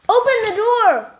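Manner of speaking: very high, loud roaring order; shout. Acted. Man outside the door, loud shout. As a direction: howl at her to open up.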